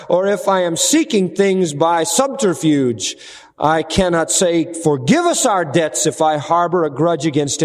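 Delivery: measured recitation of a repeated refrain; reading a devotional piece. Acted. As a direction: read it like a solemn litany. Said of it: "Some unknown author put it this way".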